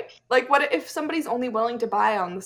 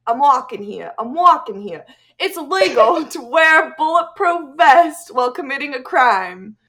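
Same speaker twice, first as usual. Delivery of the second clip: half-hearted New Jersey accent read; 2 semitones higher, 3 dB louder than usual. Shown as a demonstration. Reading the law in a mock New Jersey accent. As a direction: keep the Jersey accent through the fact. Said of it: "I have to say it".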